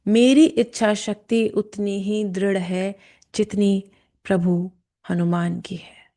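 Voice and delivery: slow, measured affirmation; guided affirmation. Shown as a demonstration. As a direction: state it slowly and deliberately, phrase by phrase. Leads a spoken affirmation.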